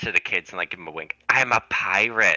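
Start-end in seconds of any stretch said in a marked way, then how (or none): 1.3-2.4 loud stage whisper, a little too loud. Telling the class a secret with a wink: loud stage whisper. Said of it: "kinda whisper a little loud to the cl-".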